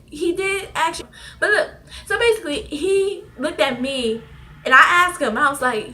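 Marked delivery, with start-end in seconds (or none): 0.1-1.1 tearful repeat. Retold or imitated. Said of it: "He said".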